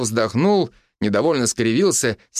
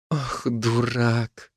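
soft, very slow tender reproach; gentle loving scold, slowed right down; 4 dB quieter, much slower than usual. A narrator's reading. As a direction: melt as you say it to your husband. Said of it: "нежно обвела шею".

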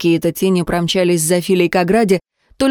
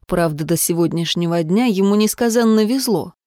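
usual speaking voice

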